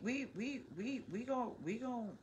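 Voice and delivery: croaky frog voice; frog impression. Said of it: "That's my frog impression".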